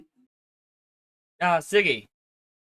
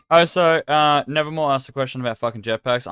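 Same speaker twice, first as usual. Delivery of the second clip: exasperated; 3 semitones higher, 7 dB louder than usual. Real, not acted. Annoyed host venting about question.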